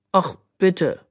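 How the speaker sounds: high, begging little plea; pleading. A narrator's reading. Bö begging the princess to let her play, pleading. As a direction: beg her sweetly. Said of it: "flehte Bö".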